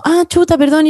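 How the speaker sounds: high, caught-off-guard "ah, chuta"; a flustered fan's quick sorry; startled apology. Retold or imitated. Fan apologizing on seeing her cry.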